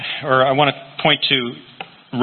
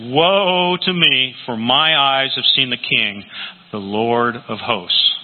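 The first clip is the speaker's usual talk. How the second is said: awed lament; much slower than usual. Acted. Preacher voices Isaiah's awe.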